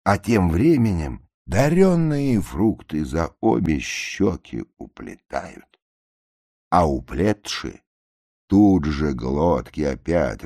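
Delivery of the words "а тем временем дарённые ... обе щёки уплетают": ordinary delivery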